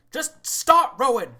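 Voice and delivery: high, drawn-out shouted order; shouting. Acted. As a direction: bellow it slowly at the rowers. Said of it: "just shouts".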